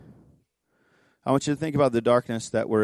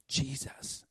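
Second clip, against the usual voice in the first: hushed, softly quoted prayer; quiet retold prayer; 12 dB quieter than usual. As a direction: breathe the name very softly in prayer. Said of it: "she says it over and over".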